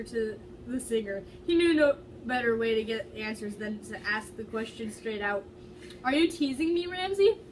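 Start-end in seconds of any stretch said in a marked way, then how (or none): 6.0-7.4 accusing. Acted. Matt confronting Josh.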